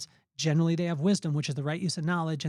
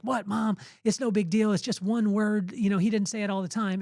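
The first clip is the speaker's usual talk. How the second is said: higher-pitched, defensive kid imitation; protesting kid; 4 semitones higher than usual. Kid argues with mom over a cuss word, mildly protesting. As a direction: lightly imitate a child brushing off a scolding.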